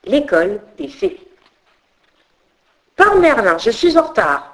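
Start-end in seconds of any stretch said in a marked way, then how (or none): 3.0-4.5 grumbling. Acted. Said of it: "ronchonne la petite fée Absinthe".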